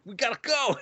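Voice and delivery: loud, high call to flee; urgent. Retold or imitated. Maid hurrying the new girl away, urgently. Maid urges escape after shooting.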